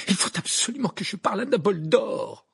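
urgent, panicked demand; desperate exclamation. A narrator's reading. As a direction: insist loudly, at the end of patience. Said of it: "s'exclama Harry".

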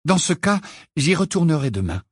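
put-on high, firm girl's voice; determined. A narrator's reading. Pupil tells Ron she will return tomorrow, determined. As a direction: state the resolve briskly. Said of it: "répondit Hermione d'un ton décidé".

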